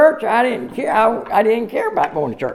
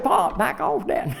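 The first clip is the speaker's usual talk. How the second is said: laughing retold plea; 5 dB quieter, slower than usual. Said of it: "I said".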